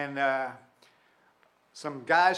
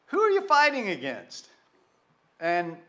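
high, loud ringing question; preacher's call; 4 semitones higher, 5 dB louder than usual. Real, not acted. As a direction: throw the question out to the whole room.

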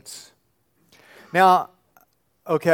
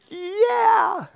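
much higher shouted, falling yeah; joyful yeah. Retold or imitated. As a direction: shout it like a proud new parent. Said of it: "and you think".

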